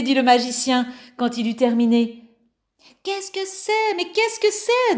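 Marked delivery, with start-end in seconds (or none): 3.0-5.0 high, wondering voices; amazed question. Acted. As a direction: ask it in astonishment. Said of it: "demandèrent les voisins".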